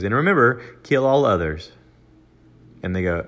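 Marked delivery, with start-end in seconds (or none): 0.0-1.7 nonchalant aside. Retold or imitated. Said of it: "nonchalantly just goes".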